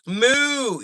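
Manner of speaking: a high mock cow moo; playful moo. Feeling like a cow.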